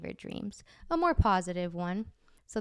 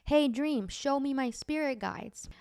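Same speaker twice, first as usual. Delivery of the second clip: higher, raised call to the dream; retold shout; 6 semitones higher, slower than usual. Dreamer calling out to the dream for her spirit guides, raised and slowed. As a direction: call out upward, slowing on the ask. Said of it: "So I shout".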